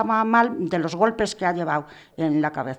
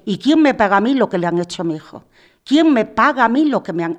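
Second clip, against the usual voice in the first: louder, rising indignant demand; demanding justice with a raw, raised voice; anguished outcry; 6 dB louder than usual. Real, not acted. Grieving mother cries out who pays for her son.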